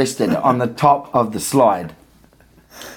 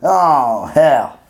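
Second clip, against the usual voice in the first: put-on Julio's accent; 3 semitones higher, 4 dB louder than usual. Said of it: "my attempts at doing Julio's accent".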